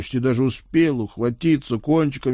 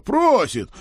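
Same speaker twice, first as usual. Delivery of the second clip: mock shout; 13 semitones higher, 4 dB louder than usual. Herald shouting demand.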